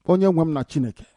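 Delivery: soft appeal to God; subdued invocation. Real, not acted. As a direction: call on your Lord under your breath. First, subdued call on God.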